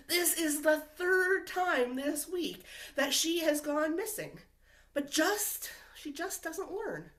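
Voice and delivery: fed up with a repeat offender; exasperated. Acted. Sheep grumbling about Hannah wandering off, exasperated.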